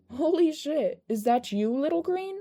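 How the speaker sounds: loud, high, delighted disbelief; surprised greeting. Acted. Magne spots Izuku at the door, loud, high and surprised. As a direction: blurt it out, thrilled and amazed.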